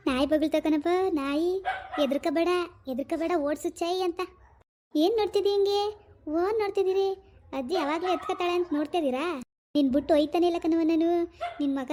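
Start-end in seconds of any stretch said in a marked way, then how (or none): 5.0-7.1 higher-pitched cooing. Real, not acted. Talking to the baby who is staring, cooing baby talk.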